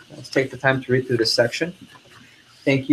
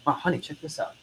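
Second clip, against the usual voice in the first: softer, higher aside to a spouse; impressed customer; 4 semitones higher, 9 dB quieter than usual. Acted. Coach as customer showing honey the knife, impressed. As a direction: confide your find, lightly acted.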